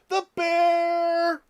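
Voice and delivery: real surprised shout across the room; startled shout. Real, not acted. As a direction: blurt it out loud at the intruder. Suddenly calls out mid-stream.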